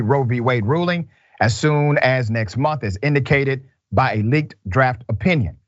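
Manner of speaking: measured, even news-reader delivery. Acted. Reporting a coming Senate abortion vote, measured news read. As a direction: read the report evenly, drawing out the last phrase.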